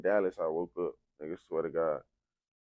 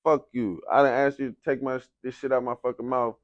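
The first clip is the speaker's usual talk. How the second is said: louder, higher, fed-up retort; angry rant; 4 semitones higher, 5 dB louder than usual. Retold or imitated. Patient with a tube in his throat cursing at the nurse, angry. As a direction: snap at her in frustration. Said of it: "I'm like".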